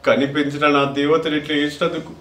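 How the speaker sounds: soft, choked pleading; tearful son. Acted. Son begging his crying mother not to grieve, tearful. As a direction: plead through tears, softly.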